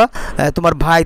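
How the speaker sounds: ordinary talk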